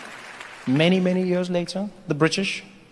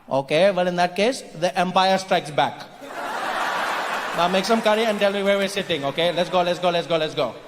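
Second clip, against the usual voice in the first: triumphant Indian immigrant. Acted. Indian immigrant turns tables on British, coolly triumphant. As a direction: take charge with dry Indian-accented authority.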